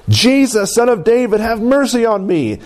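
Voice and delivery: lightly acted cry for mercy; imitated crying out. Blind man calling to Jesus over a crowd, mildly crying out. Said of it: "And he began to cry out to Jesus".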